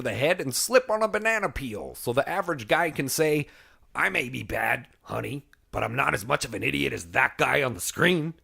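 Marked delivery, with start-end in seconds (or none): 3.9-8.3 a lightly voiced Chris Farley, soft; Chris Farley quote. Quoting Chris Farley on why comedy matters, lightly voiced. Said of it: "Chris Farley".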